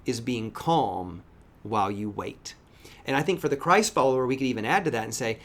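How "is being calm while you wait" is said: put-on gentle explanation to child. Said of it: "I said".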